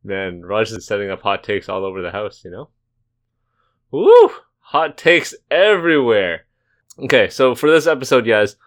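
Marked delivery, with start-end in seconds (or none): 3.9-6.5 much higher, louder whoop, then slow; hype shout. Pretend. Hyping Raj's joke.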